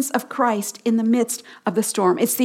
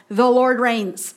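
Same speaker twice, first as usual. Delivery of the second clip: slow title; slower than usual. Shown as a demonstration. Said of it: "The first two verses I titled".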